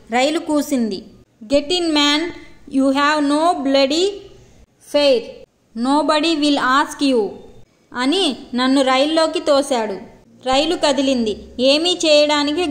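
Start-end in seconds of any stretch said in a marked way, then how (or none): 1.4-7.3 a hint of a gruff railway official brushing him off; mildly contemptuous English dismissal; narrator's light mock of a rude ticket collector; lightly voiced rude official. Official pushes him into train.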